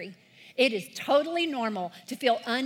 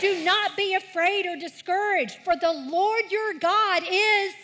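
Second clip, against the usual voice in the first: leading recitation; 6 semitones higher, 3 dB louder than usual. Shown as a demonstration. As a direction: draw the kids toward the last words. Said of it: "Read the highlighted words with me".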